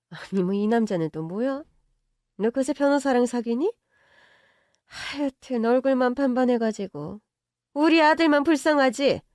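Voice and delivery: mock her for the lawyer; scornful rich mother. Mother mocking the girlfriend about the lawyer, scornful. Mother mocks new man.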